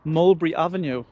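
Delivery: Sunderland twang on Mulberry Avenue, "Mulberry" clipped to "Mulbry"; Sunderland accent. Real, not acted. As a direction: say "Mulberry Avenue" in broad Sunderland, dropping letters. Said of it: "Me Sunderland twang kicked right in there".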